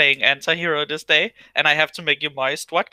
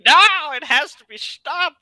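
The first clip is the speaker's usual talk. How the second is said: mock dramatic; 9 semitones higher, 5 dB louder, slower than usual. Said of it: "he was like".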